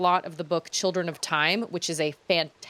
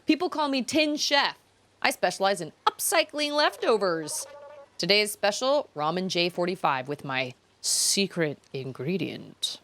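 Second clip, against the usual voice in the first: Tin Chef, game character; 3 semitones higher than usual. Acted. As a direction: introduce yourself like a showy robot chef.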